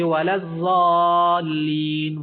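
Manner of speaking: الضالین chanted slowly with ض as z, zaaleen; wrong z recitation. Shown as a demonstration. The teacher shows students what not to recite. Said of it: "زوا کی طرح پڑھ سکتے".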